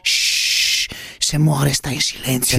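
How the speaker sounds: unhurried politician parody with a long shush; Prodi. Acted. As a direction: break off to shush at length. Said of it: "scusi, Prodi".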